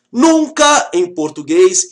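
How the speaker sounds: slow, weighty "Nunca", each word set apart; stress on nunca. Shown as a demonstration. Teacher to class, insisting: "Nunca" stressed and slowed. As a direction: lean hard on "Nunca em português". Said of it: "aqui eu estou dizendo".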